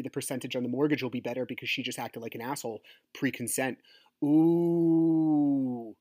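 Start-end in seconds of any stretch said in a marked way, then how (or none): 4.2-5.9 long, loud gleeful "ooh"; happy. Real, not acted. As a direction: savour it in one drawn-out whoop. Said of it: "man, am I happy".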